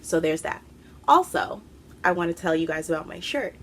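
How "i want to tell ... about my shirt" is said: breathless, rushing the words; talking while winded; out of breath. Real, not acted. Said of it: "I'm out of breath".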